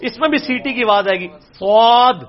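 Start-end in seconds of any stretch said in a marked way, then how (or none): 1.6-2.2 سواد with a thick, heavy ص, loud; heavy emphatic ص in سواد; heavy saad. Shown as a demonstration. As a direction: thicken the s of سواد, lips rounded, full and heavy. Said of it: "صرف اس کو موٹا کر کے پڑھنا ہے".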